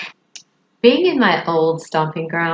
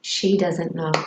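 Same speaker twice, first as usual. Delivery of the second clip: soft, sinking realization; hushed inner alarm; quiet dismay; 2 semitones lower, 6 dB quieter than usual. Retold or imitated. Kate realizes her friend never heard, quiet dismay. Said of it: "And I thought".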